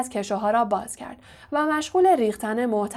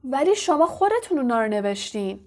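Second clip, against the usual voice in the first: mild shouted protest; 3 semitones higher than usual. Acted. Harry protests to the professor who wrote the books, mildly shouting. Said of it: "هری فریاد زد".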